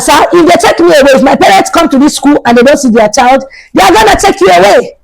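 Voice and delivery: high, emphatic mock threat; acted indignant warning; retold defiance. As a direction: stand your ground against the principal.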